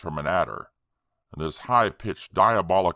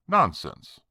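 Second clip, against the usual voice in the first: higher, louder burst of disbelief; incredulous exclamation; 7 semitones higher, 4 dB louder than usual. A narrator's reading. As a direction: scoff it out in disbelief. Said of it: "I gave an incredulous exclamation".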